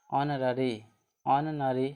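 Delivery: "ऑनररी" opening on the "o" vowel, no h; silent H. Shown as a demonstration. Teacher models the spelled word, "ऑनररी" with silent H. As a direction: say "ऑनररी" twice, H left silent. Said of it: "इसको क्या बोलेंगे?".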